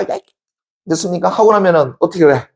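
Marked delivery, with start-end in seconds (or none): 0.0-0.2 high, brief mock yell; venting cry, cut short; demonstrated yell. Shown as a demonstration. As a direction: act out shouting to let it all out. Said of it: "있는 대로 없는 소리 쳐".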